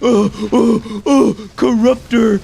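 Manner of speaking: loud, slow mock-moronic grunts; hammed-up dumb grunting, very loud; dim-witted grunting. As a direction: grunt it out like a clueless brute. Mock caveman grunts after feigned ignorance.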